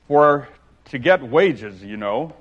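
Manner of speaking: solemn boastful egg; grave. Acted. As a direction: pronounce it gravely. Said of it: "wagging his head gravely".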